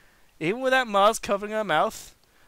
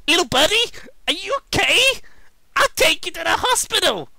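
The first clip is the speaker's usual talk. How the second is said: high, loud panicked concern; frantic worry; 11 semitones higher, 5 dB louder than usual. Acted. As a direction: rush to help the friend. Sonic catches falling Tails.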